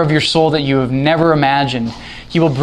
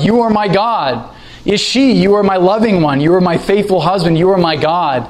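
raised, longing cry to God; fervent cry; 4 semitones higher than usual. Shown as a demonstration. Preacher shows the church how to cry out, raised and fervent. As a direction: call out to God with devotion. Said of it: "It should be to cry out".

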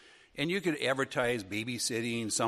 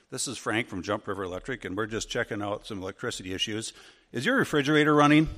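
serious repairman voice; 2 semitones lower than usual. Retold or imitated. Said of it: "sounded serious".

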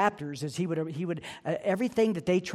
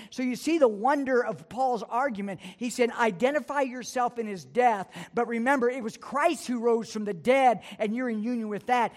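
raised, pressing sermon delivery, pitched higher; preaching; 5 semitones higher than usual. Acted. Pastor urging his church to look to Christ, raised preaching. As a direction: lift the voice and drive the point home to the congregation.

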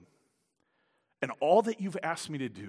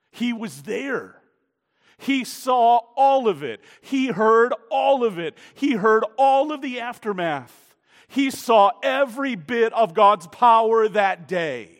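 higher and louder, punching every "all"; loud stress on all; 7 semitones higher, 10 dB louder than usual. Shown as a demonstration. Preacher pressing Ahab's witness on the congregation, loud and insistent. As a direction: hammer "all" each time. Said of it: "emphasis here on the word all".

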